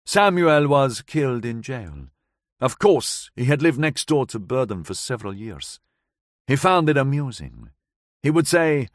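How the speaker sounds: put-on light foreign accent, woman recounting; Gabriella's voice. Gabriella tells the narrator of that night, lightly accented.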